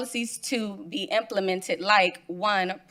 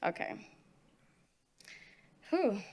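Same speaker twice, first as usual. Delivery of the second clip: stage fright; 9 dB quieter than usual. Real, not acted. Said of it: "I'm a bit nervous".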